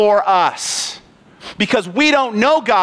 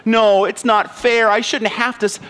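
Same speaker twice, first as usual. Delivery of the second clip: mock whiny; 3 semitones higher than usual. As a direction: whine like a babied believer, slightly hammed-up. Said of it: "Why do we sound whiny?".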